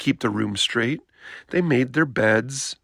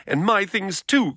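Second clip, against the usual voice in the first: crying out; 7 semitones higher than usual. Acted. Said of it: "cried Brother".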